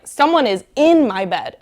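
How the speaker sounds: loud, emphatic storybook alarm; mock outrage. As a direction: exclaim it like a wronged little bear, hammed up. Baby bear finds the intruder.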